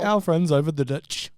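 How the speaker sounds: slow, a hint of a Kiwi accent; lightly faked Kiwi accent; New Zealand accent. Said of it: "Sorry, that was terrible".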